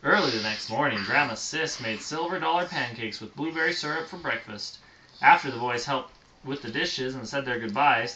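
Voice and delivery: storybook read aloud; reading to children. A narrator's reading. Parent reading a bedtime story to a child, storybook voice. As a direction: read it gently to a little listener.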